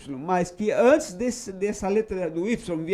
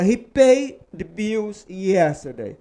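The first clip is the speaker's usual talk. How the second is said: slow model sentence; slower than usual. Shown as a demonstration. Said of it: "E se eu falo".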